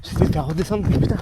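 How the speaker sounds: panting mid-race, words between breaths; breathless from running uphill. Real, not acted. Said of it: "Je suis à fond". (essoufflé en pleine course)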